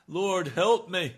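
pleading cry. Pretend. Preacher voicing the sinner's plea again, slow and loud. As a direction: beg for help with everything you have. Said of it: "and to cry out".

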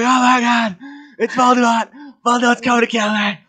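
high-pitched, hammed-up terrified cry; mock panic. Boy retelling his fright that Voldemort came for him, mock panic. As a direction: squeal it out like a panicked kid.

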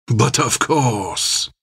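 slow, lightly voiced smirking agreement; drawn-out mock politeness; a touch of a smirk; smug reply. A narrator's reading. Armand replies smugly.

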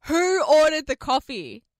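slow, mock yell across the salon; imitating a receptionist yelling. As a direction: call it out slowly to the whole room. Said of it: "So she yells out".

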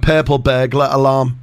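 "Purple burglar alarm" in a clean English accent. Shown as a demonstration. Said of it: "In a, in a English accent, I can do it".

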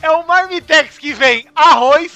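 surprised. Real, not acted. Incredulous listing of food.

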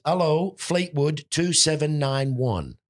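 high, slow, loud-ish telephone-answering impression; Edith. Landlady answers the home phone, high slow mimicked voice. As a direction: draw out a high-pitched mimicked phone greeting. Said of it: "she answered the phone like this".

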